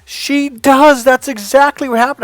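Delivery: high, half-laughing agreement; laughing admission. Retold or imitated. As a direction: give in with a laugh. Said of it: "and he starts to laugh".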